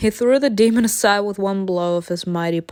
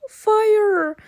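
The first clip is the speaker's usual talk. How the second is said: whispered call; 13 semitones higher, 3 dB louder than usual. Acted. Calls the dragon for help.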